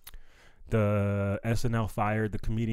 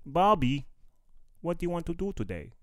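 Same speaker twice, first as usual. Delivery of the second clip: lightly voiced cartoon mom, rising higher; a hint of a sing-song sitcom mother; Bobby's World mom; 6 semitones higher than usual. Comic imitating the cartoon mom's light Wisconsin lilt. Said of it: "How the mom talks?".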